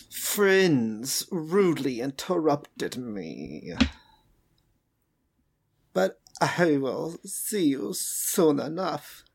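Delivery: slow, smug villain voice; slow villain taunt. Acted. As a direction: drag it out, cold and smug. Villain father taunts over phone.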